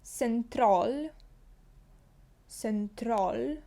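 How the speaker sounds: «Централь» with S and A near O; «Централь» said as sentrol, rising; «Централь» the Swedish way, twice; Swedish central. Shown as a demonstration. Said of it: "Літера С".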